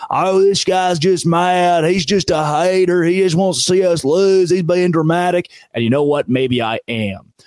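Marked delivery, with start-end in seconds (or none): 0.1-5.5 mock angry fan. Host voices Oklahoma and Texas fans scoffing at him, mild mock jeer. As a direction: jeer back like a sore rival fan. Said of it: "they're screaming".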